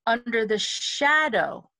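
slow phrase, leaning on the first syllable of "shadow"; emphasis on SHA. Shown as a demonstration. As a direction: draw out and stress the start of "shadow". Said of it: "The first syllable of shadow".

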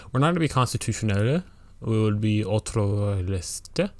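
hammed-up French accent on the French words; lightly put-on French accent; mock French accent. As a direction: put on a bad French accent for the game terms. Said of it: "imitate the French accent".

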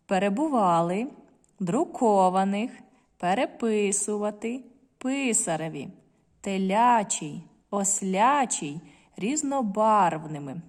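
each word read slowly, stress clearly marked; slow, deliberate teacher reading for stress practice; careful stress reading. Shown as a demonstration. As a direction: read the list slowly, leaning on every stressed syllable. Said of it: "звертаємо увагу, діти, на наголос".

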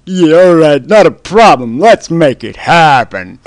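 mother cheerfully agreeing to the voice's order; eager mother voice. Acted. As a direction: chirp it like a too-keen mom.

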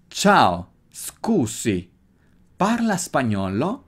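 natural Italian accent. Shown as a demonstration. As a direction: sing Ciao, scusi in Italian tune. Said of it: "Nota el acento que trato de ponerle".

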